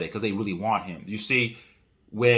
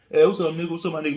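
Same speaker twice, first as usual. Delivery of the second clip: friendly greeting; 5 semitones higher, much faster than usual. Retold or imitated. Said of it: "the way that they say African Americans use it".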